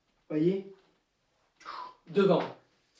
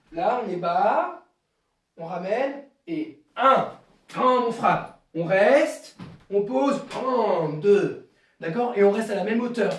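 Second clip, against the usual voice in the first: coach's count; 5 dB louder, slower than usual. Shown as a demonstration. Karate teacher drilling a kick.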